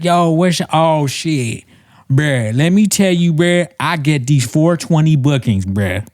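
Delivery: stoned comic impression. Mimicking a stoner comedian's weed bit, slurred high-pitched blaccent. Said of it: "he looks like he's high".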